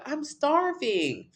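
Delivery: high, very slow drawn-out "starving"; hammed-up hungry moan, high and slow; mock whine. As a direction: whine it out, stretched long. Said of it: "that good would turn into".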